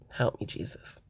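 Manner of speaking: very low, hushed plea for patience; exasperated murmur. Real, not acted. Bracing viewers for the last scene, low exasperated murmur. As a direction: sink low and soft, as if praying for strength. Dreading the scene she must recap.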